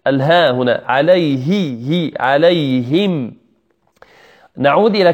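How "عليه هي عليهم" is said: عليهم with a clear "hi" on the haa; clear kasra on haa. Shown as a demonstration. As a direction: slowly isolate "hi", then say عليهم. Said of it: "لابد من كسر". (نطق عليهم بكسر الهاء)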